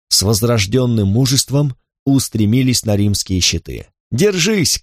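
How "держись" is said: high battle cry, full voice; shouting. Acted. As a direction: yell it to hold the line. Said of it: "кричал Катон".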